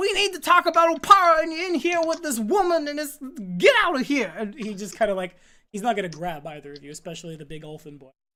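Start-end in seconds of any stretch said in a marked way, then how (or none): 0.0-4.3 very high, loud, frantic, panicked yelling. Voicing a character who bursts into a room: in-character freaking out. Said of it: "freaking out".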